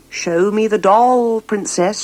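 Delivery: slow, deliberate command from a lightly voiced old woman. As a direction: hold the doll out to me, slowly and firmly. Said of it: "she commanded".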